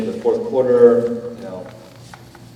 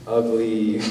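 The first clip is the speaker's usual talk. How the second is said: usual speaking voice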